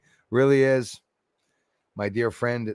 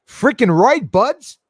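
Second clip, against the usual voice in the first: loud, high mock Canadian accent; 9 semitones higher, 10 dB louder, slower than usual. Shown as a demonstration. Showing how Canadians say it, loud Canadian accent. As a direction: call it out in a hammed-up Canadian accent. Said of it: "like Canadians say".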